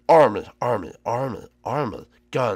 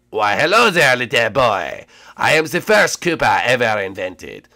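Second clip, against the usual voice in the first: lightly voiced old Koopa greeting; a hint of a grand elder; French Koopa voice; 3 semitones lower than usual. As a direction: ancient Koopa greeting the boy, slightly lower.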